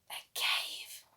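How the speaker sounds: hushed whispered discovery. A narrator's reading. Storyteller to children, an awed whisper. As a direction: say it as if the cave could hear.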